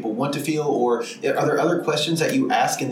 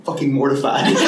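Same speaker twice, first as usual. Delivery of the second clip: giggling, embarrassed; flustered laughing. Real, not acted. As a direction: laugh through the words, flustered. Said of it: "I'm both aroused and fucking mortified".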